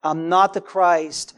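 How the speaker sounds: slow, weighted "not the Christ"; deliberate stress on "not"; emphatic denial. Acted. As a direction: stretch "not" to make it plain. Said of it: "There's emphasis in the scripture when he".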